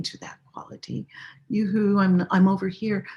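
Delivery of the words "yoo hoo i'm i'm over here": mock calling out. Shown as a demonstration. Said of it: "No, no, no".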